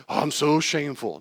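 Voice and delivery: high, loud mock wailing; mock shame. Speaker parodying self-pity over a false belief, mock shame.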